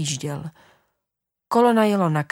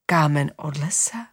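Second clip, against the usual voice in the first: lower, puzzled question rising at the end; father surprised; 4 semitones lower than usual. Acted. Father doubts the child about the stone, lower surprised voice. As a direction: wonder aloud in disbelief. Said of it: "divil se táta".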